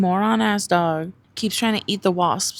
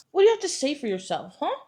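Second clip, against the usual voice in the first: mock scolding; 7 semitones higher, faster than usual. Scolding dog in put-on voice.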